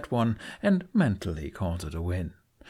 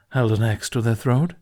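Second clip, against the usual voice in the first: smirking; 6 dB louder than usual. Acted.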